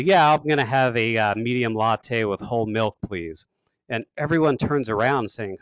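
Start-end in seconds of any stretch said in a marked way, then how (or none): 0.0-3.4 loud, projected start, dropping away on "please". Acted. Customer ordering a latte at Starbucks, very loud voice. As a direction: order from the gut so the room hears. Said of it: "in a very loud voice".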